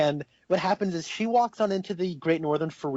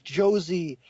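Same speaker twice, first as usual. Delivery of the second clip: slow dreamy Pete; 2 semitones higher, much slower than usual. Retold or imitated. Retelling Pete talking to ceiling.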